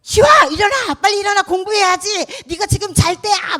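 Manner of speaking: high, loud yell to get a sleeper up; bossy wake-up shout. Pretend. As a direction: shout like a nagging parent waking a lazy kid. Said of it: "깨우는데 막 다급하기 때문에 친절하게 깨웠을까요?".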